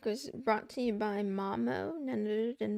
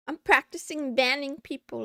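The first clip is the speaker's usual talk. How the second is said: laughing; 3 semitones higher, 8 dB louder than usual. Real, not acted. Laughing while banning chatters.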